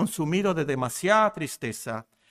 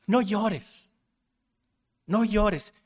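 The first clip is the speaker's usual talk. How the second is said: mild scolding lady; 3 semitones higher, much slower than usual. Retold or imitated. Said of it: "de tal manera que todos lo estamos escuchando".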